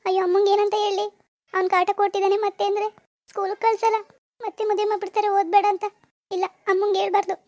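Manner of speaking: high, weepy thinking aloud; acted anxious tearfulness; tearful worry. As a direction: fret to yourself while crying. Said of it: "ಯಾಕ್ ಅಳ್ತಾ ಇದ್ಯಾ?".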